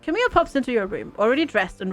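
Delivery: calm, even storyteller read; story narration. Acted. Streamer reading the game's story to viewers, narration voice. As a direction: narrate the morning like a novel.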